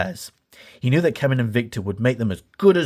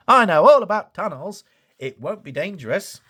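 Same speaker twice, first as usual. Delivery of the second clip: higher, eager boast; excited Thomas; 5 semitones higher than usual. A narrator's reading. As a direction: brush off the warning eagerly. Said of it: "Thomas was too excited to listen".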